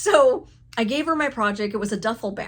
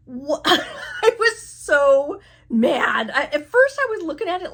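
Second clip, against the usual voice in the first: slow, laughing disbelief; laughing through it; 6 semitones higher, 6 dB louder than usual. Real, not acted. Laughing at her own cutting blunder, slow and amused. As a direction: let the laugh spill into the words.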